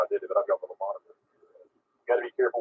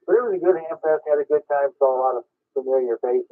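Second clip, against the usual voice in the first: yawning; 2 semitones higher than usual. Real, not acted. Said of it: "Yep, I'm yawning right now".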